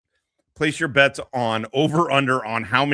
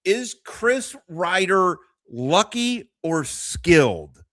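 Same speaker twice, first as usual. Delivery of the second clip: mocking question; 5 semitones higher, slower than usual. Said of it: "if you're asking yourself".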